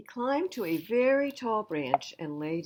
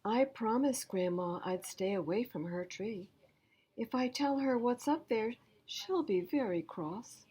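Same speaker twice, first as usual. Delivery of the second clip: put-on higher child's pleading voice; child asking for help; 6 semitones higher than usual. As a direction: plead like a small kid in trouble. Jessie's plea voice.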